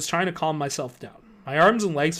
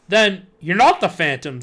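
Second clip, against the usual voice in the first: uncertainly; 3 semitones higher, 6 dB louder than usual. Acted.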